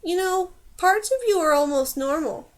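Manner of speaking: eased-off, lightly wondering remark; milder voice. A narrator's reading. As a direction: offer a backhanded compliment mildly. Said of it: "in a milder voice".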